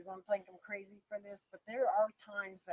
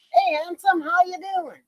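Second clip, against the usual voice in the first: cheery greeting; 9 semitones higher, 7 dB louder than usual. Shown as a demonstration. Friendly greeting to guys.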